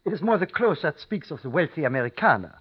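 put-on innkeeper with a thick German accent; formal, polite German-accented English. Austrian innkeeper greets American guests.

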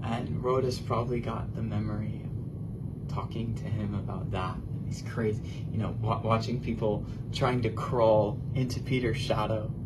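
breathy secret-telling whisper; hushed whisper. Real, not acted. Preacher whispering to the congregation about the crowds. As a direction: drop to a low whisper, drawing them in. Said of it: "preacher drops to whisper".

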